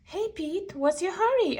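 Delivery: high friendly call; Gus calling. Acted. Gus hails Pete on the street, high and friendly.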